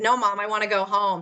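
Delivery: put-on tearful crying voice, pleading tone. Retelling a birthday exchange with mom, acting out crying to mom.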